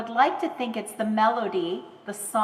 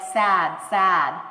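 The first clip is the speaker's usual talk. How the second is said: imitating aphasic speech; 3 semitones lower, 5 dB louder than usual. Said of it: "So she will say things like".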